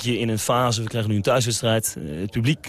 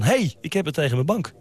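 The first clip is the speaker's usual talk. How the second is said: higher-pitched mock call to the bench; retold call; 7 semitones higher than usual. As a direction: pitch up, calling out as he did then. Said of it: "riep ik". (nagespeeld roepen, hoger maar niet luid)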